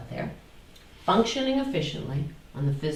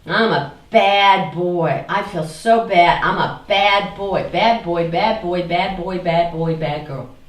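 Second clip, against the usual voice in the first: self-scolding; 7 dB louder than usual. Acted. Acting the guilty flip.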